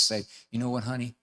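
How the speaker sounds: quiet, low, even parental firmness; unruffled parent sending a child away; calm tone of voice. Shown as a demonstration. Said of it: "calm tone of voice".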